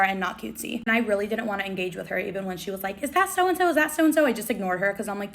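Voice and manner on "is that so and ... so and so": high-pitched mocking squeal; imitated fan scream. Obnoxious girl asking about a celebrity, mock squeal. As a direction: parrot the frantic fangirl. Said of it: "another girl runs up screaming".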